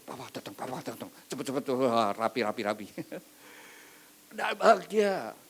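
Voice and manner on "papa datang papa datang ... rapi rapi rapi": quick, scared whisper-like warning to siblings; panicked children, hushed. Retold or imitated. Children panic as father arrives. (anak panik berbisik papa datang)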